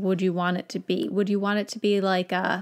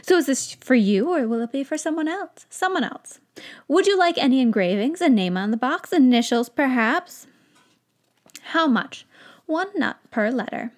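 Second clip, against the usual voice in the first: slightly higher eager questions; lightly voiced wizard; 4 semitones higher than usual. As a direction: shopkeeper taking the order. Wizard and Lily dialogue.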